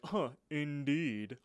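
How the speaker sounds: a hint of posh snob, slow drawn-out huh; lightly voiced snooty diner, slow; fancy person. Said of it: "imitate a, a fancy person".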